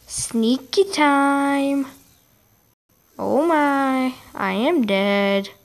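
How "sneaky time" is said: sneaky. Real, not acted. Drawn-out playful gaming aside.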